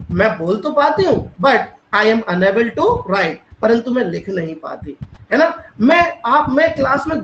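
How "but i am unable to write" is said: very slow, word by word; slow, deliberate teacher read; slow model sentence. Shown as a demonstration. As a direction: dictate it slowly to students. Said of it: "आप क्या कहेंगे?".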